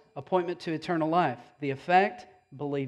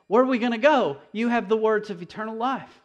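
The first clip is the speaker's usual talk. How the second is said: a hint of pleading Peter, higher; puppy-dog Peter; 5 semitones higher, 3 dB louder than usual. Peter answering Jesus, lightly pleading. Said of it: "like a little puppy dog".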